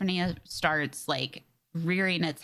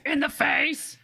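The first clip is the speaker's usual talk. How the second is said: higher, punchy repeat of the line; echoed shout; 7 semitones higher, 3 dB louder, slower than usual. Acted. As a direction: throw the line back with glee. Echoing the quoted movie line.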